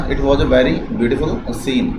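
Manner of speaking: very slow, each word spaced out; slow read-aloud. Shown as a demonstration. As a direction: dictate it slowly to the class. Teacher reads transformed sentence.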